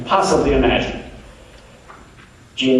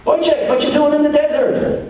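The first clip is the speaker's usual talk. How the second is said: much higher, brisk Jewish genie voice; 12 semitones higher than usual. Acted. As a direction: pop up as a chirpy genie, voice pitched way up. Jewish genie greets the Arab.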